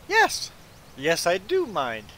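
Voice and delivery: high, loud "Yes", then slow and firm; acted-out emphatic refusal; retold indignant objection. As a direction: push back, drawing out the words. Retelling firm objection to cutter.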